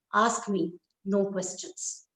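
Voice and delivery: slow, firm and clipped; curt refusal. Acted. Husband refuses his wife's question, slow and firm. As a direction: shut her down, slowly.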